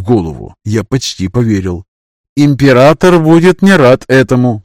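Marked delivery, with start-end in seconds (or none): 2.4-4.6 put-on high, loud girl voice; worried girl voice. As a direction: fret like a young girl. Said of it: "покачала головой Яна".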